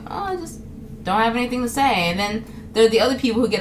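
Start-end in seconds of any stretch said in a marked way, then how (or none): 0.1-2.1 mild excuse. Acted. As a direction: offer a small, gentle excuse. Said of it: "I'm just gonna tell you".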